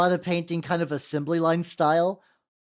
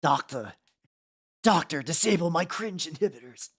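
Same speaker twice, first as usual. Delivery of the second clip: mock doctor voice. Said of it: "That is not a good writing voice".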